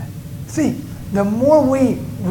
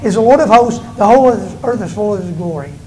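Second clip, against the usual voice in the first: proclaiming. Acted. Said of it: "one called out to another and said".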